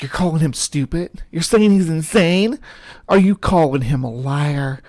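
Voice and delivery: hammed-up indignant questioning; mock indignation. Commenter imitating someone objecting to the skeptics, mock indignant. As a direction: play an affronted objector, building through the questions.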